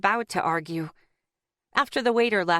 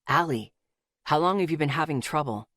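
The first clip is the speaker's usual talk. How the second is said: polite; 4 semitones lower than usual. A narrator's reading. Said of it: "Asher asked, politely".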